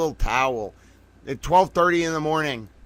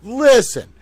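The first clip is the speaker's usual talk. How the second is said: calling out; 5 semitones higher than usual. Real, not acted. Calling for attention.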